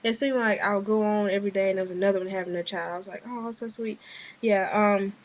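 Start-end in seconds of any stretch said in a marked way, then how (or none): 3.3-4.0 put-on soft little "aww" over a baby; tender cooing. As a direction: coo it softly, as if recalling it. Retells cooing over new babies.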